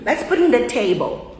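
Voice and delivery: the "in" in "put in the table" tucked quickly onto put; reduced preposition. Shown as a demonstration. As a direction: link "put in the" lightly, land on table. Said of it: "O on quase não foi falado".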